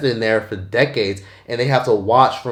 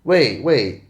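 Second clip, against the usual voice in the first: startled hold on; much slower than usual. Retold or imitated. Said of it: "and I'm like".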